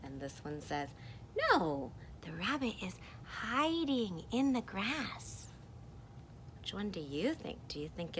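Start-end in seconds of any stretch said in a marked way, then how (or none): 1.4-5.5 higher-pitched storybook voice; contradicting character. Acted. Second character insisting it's a rabbit, higher-pitched objection.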